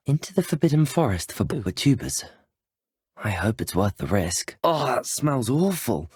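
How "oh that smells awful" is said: disgusted. Acted. Recoiling from a bad smell.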